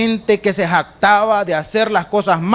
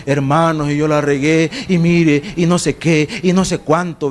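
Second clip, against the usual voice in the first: feigned sorrow. Pretend. Sinner faking repentance before the congregation, feigned sorrow. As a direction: put on a show of being pained. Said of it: "fingir una condición de dolor".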